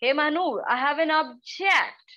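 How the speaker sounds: slow, even, no push on object; neutral object. Shown as a demonstration. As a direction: say it as a simple fact. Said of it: "I'm saying".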